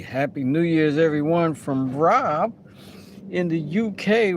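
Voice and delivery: loud, high hammed-up British greeting; mock British accent. Streamer imitating the UK channel host, loud mock British accent. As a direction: shout a cheesy British New Year greeting like the UK host. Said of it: "his accent is not that one".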